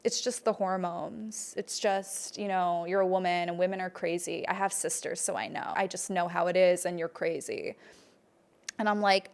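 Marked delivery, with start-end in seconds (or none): 0.0-7.8 mocking dismissive boyfriend. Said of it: "he would just be like".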